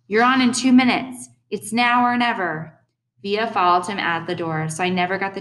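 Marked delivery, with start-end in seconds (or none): 0.1-2.7 high, urgent stage call; hushed shouting. A narrator's reading. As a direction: hurry an actor along from the door. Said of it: "Hush shouting from the door".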